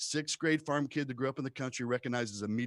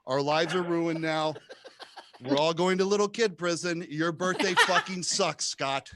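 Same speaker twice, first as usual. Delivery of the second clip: put-on panicked kid; 2 semitones higher, 4 dB louder than usual. Kids panicking after the shots.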